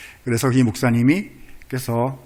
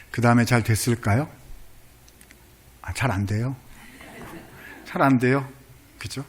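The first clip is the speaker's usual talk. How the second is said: usual speaking voice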